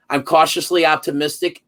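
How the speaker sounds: "cautiously" given the emphasis, the key word of the sentence; stress on CAUTIOUSLY. Real, not acted. Co-host giving his guarded verdict on the angle, stressing cautiously. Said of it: "emphasis on the word cautiously".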